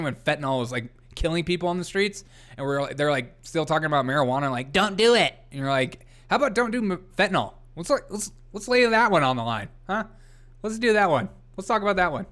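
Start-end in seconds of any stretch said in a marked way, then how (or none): 4.7-5.3 higher mock warning cry; mock scolding. Mimics anti-marijuana scolds. 6.3-12.3 higher-pitched sarcastic pleading; mock exasperation. Acted retort to marijuana critics.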